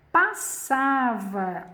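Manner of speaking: ordinary talk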